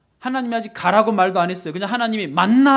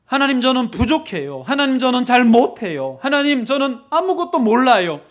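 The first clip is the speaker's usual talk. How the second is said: louder, higher earnest plea; raised, insistent confession of weakness; pleading confession; 4 semitones higher, 5 dB louder than usual. Acted. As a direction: act out a helpless admission to God. Acting out a believer confessing inadequacy.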